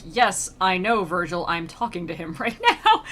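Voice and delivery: mock sass with a laugh breaking in; sassy. Dante answers Virgil's needless prompt, sassy. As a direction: play an irked pupil talking back. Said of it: "he doesn't sass Virgil".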